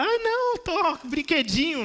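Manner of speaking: high mock baby whine; whiny baby. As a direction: whine like a baby pushing a toy away. Baby refusing a toy.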